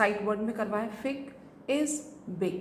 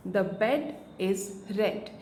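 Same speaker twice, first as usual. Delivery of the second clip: very slow, even sentence; drawn-out sentence for young learners; slow read-aloud; much slower than usual. Shown as a demonstration. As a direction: read it through slowly for a child. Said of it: "इस तरह से बच्चा book reading करेगा".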